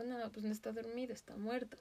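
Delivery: calm flat verdict. Retold or imitated. Mom telling her daughter the duck is dead, softly. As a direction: break the news quietly. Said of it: "Mi mamá dijo".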